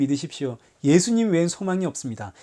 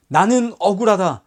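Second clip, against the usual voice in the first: mock cry of injustice; 2 semitones higher, 3 dB louder than usual. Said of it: "이렇게 소리를 지르셨습니까?".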